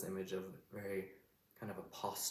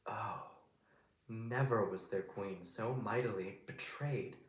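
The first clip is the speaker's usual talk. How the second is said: slow, as if looking back on the betrayal; a drawn-out oh, then the line weighed out; dawning realization; 2 semitones higher, slower than usual. Shown as a demonstration. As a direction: let the realization land slowly. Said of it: "a realization moment for Cleopatra".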